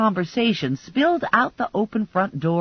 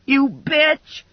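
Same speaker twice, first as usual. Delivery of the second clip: high furious shriek; 7 semitones higher, 4 dB louder than usual. A narrator's reading. Sugar shrieking at Stephanie, furious shriek. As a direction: scream it in fury. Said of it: "Sugar shrieked".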